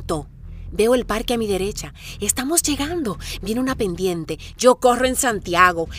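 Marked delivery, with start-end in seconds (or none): 4.6-5.9 loud cry of self-encouragement; loud self-cheer. Real, not acted. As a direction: shout it up the hill. Se grita ánimo en la pendiente. (grito de ánimo a sí misma)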